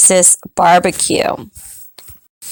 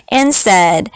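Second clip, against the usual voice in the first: taunting laugh. Acted. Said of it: "just laughed".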